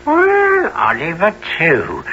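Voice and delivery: high, manic cackling greeting; crazed high voice with a giggle; raving madman. Acted. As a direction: gloat like a man lost in delusion. Raving, greeting imaginary boys.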